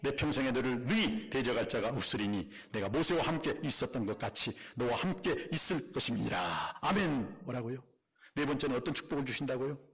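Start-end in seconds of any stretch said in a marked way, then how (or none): 0.0-6.8 scripture reading. Real, not acted. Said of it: "오 절 한번 읽어보겠습니다".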